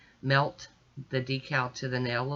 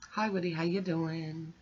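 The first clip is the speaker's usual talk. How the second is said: pet-talk voice; 2 semitones higher, 4 dB quieter than usual. Real, not acted. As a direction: coo hello to the dog. Greets her pet Woody.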